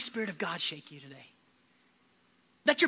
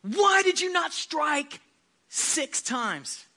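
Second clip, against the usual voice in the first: higher, slow angry demand from a dying man; slow, pained rebuke, rising on why; angry dying prophet; 5 semitones higher, much slower than usual. Retold or imitated. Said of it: "totally aggro, just angry".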